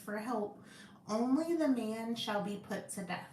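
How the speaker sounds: deliberate question-and-answer read-aloud; Bible study reading. Acted.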